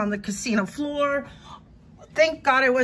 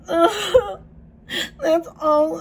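crying; 3 semitones higher, much slower than usual. Real, not acted. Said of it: "I don't know why I'm crying".

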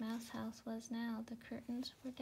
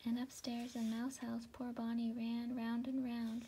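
plain reading voice

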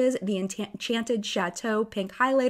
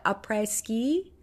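"après ski" retried slowly in a French accent, "ah-preh", the ski rising; slower French accent retry; slower than usual. Shown as a demonstration. Vlogger retrying the collection name, slow careful French accent. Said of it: "how'd I do? Did I do okay?".

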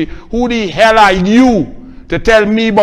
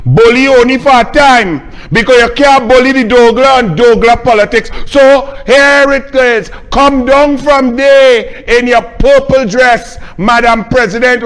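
higher, louder, building into a furious shout; angry shout; 4 semitones higher, 4 dB louder than usual. Real, not acted. Activist berating the President on air, angry shout. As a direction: hammer each word at her, full fury. Ranting at President, rising attack.

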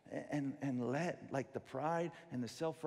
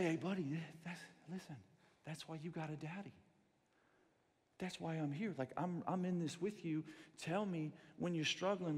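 tender fatherly. Retold or imitated. Father comforting son.

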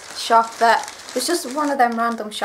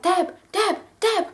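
mum calling out; 8 semitones higher, slower than usual. Retold or imitated. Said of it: "she was like".

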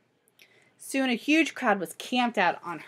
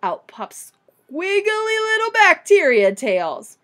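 higher, loud, slow funny scientist; Mister Melon voice; 7 semitones higher, 7 dB louder than usual. Acted. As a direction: paint the tails with a goofy high voice. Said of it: "said Mister Melon".

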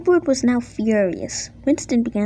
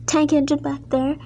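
angry order; 4 semitones higher than usual. Acted. Controller sending both engines to scrap, angry. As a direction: hand down the punishment, then dismiss them.

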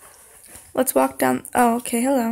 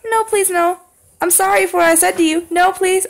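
frantic pleading; 4 semitones higher than usual. Real, not acted. Begging the animatronic.

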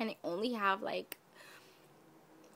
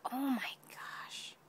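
awed whisper; 3 semitones higher than usual. Real, not acted.

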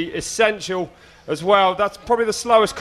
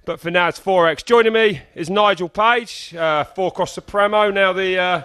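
sports presenter; 2 semitones higher than usual. Acted. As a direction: open the show like a broadcaster. Opens the live broadcast.

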